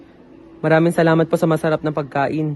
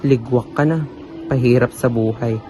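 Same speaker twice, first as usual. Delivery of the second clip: frustrated rant. Acted. Frustrated rant about perfection.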